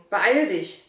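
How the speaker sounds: loud, insistent hurry; urging. Acted. Father urging his son to get going, loud. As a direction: press him hard to hurry up. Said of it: "drängte der Vater".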